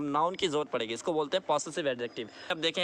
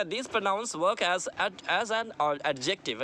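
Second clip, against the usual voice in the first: slow reading aloud; much slower than usual. Shown as a demonstration. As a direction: read the note very slowly. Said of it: "इनका जो sentence note देखिए".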